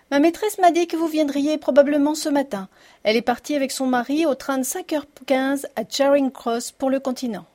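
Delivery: voix de domestique âgée, plus aiguë; annonce-le en vieille servante. Acted. Figure of the old servant. (vieille domestique à la voix perchée)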